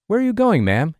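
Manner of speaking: a stranger shouting after Amy. Retold or imitated. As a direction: keep yelling the question at her. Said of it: "he continued shouting".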